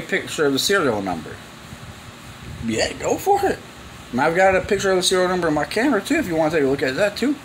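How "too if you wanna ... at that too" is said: ordinary talk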